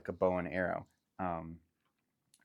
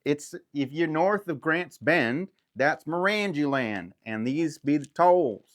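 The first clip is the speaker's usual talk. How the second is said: loud, high, slow bandit voice; 8 semitones higher, 9 dB louder, slower than usual. Acted. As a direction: lay down the law like a rough toll-keeper.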